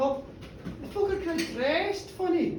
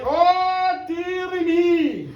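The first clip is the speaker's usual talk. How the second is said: mock dismay; 4 semitones higher, 4 dB louder, much slower than usual. Hamish reacts to the vanishing.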